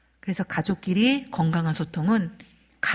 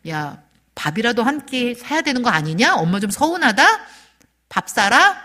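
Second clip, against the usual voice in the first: lightly acted grumble, growing louder; mildly miffed mother; 2 semitones higher, 5 dB louder than usual. Mother nudging her sons on Parents' Day, mildly miffed. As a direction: press the complaint, ending on a loud demand. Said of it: "되게 서운하더라고요".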